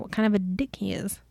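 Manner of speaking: hushed whisper for the reveal; whispered aside. Real, not acted. Revealing the villain to her co-host in a whisper.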